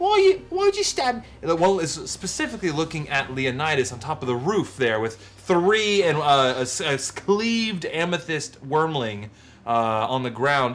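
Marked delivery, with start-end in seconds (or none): 0.0-1.2 tiny, very high, squeaky, pitiful creature voice. As if a fragile newborn creature is speaking, small and frightened, begging to know why it was hurt when it just wanted to live. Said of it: "their little voices".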